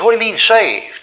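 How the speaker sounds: high-pitched baffled question; acted-out puzzled friend; incredulous. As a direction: question it in mild mock disbelief. Friend baffled at news of conversion.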